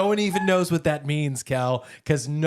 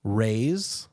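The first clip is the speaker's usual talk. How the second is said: "Raise" set apart, pause after it; word by word; 3 semitones lower than usual. Shown as a demonstration. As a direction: spell out the phrase slowly, "Raise" on its own. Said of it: "if you say the phrase".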